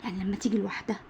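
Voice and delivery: soft unvoiced whisper; hushed explaining whisper; whispered aside. Shown as a demonstration. Teacher explaining stop softly.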